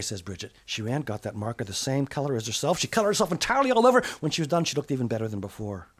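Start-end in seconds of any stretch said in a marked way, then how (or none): none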